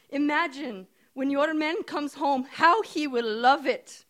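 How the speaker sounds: put-on high, loud, slow dreamy Indian accent. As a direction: coax her in an Indian accent. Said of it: "she says in her strong Indian accent".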